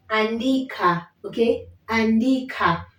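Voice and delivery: andika with the final a clear; Swahili andika. Shown as a demonstration. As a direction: model andika for repeating. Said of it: "you can hear the a coming out".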